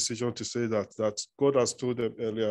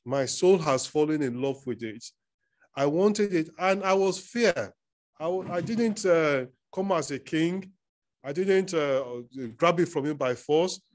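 higher, lightly whining sulky king; whiny king; 4 semitones higher than usual. Retold or imitated. Ahab complaining to Jezebel about Naboth, whiny. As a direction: complain like a spoiled child. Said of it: "He said".

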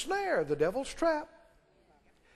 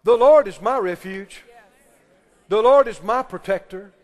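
emphatic, louder on each statement; bold declaration; 3 semitones lower, 7 dB louder than usual. Shown as a demonstration. Preacher shows the congregation what to say, bold declaration. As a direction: declare it loudly with conviction. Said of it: "open your mouth and you're gonna say".

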